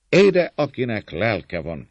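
high, loud, drawn-out call; rallying shout. A narrator's reading. Servant leader rallying the defenders, shouting. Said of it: "kiáltta".

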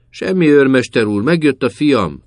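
drown him out with noise; clamoring loudly. A narrator's reading. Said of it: "lármázott az öregasszony".

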